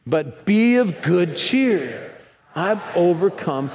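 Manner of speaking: slow, drawn-out reading together; slow group reading. Real, not acted. Congregation reads verse together slowly. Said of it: "Let's read it together".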